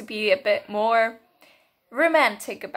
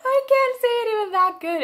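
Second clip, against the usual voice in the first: higher, giggly admission; 11 semitones higher, 3 dB louder than usual. Real, not acted. Admitting she can't match the actress, higher giggly voice. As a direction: say it still half-laughing.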